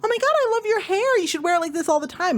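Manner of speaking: high, fast, mock gushing voice; gushing coworker. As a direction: ham up an overly sweet compliment.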